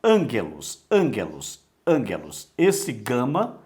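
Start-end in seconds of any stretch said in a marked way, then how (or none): 0.0-2.5 ângelos with a hard g; correct pronunciation. Shown as a demonstration. Teacher repeating ângelos with a hard g. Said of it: "está errada a pronúncia".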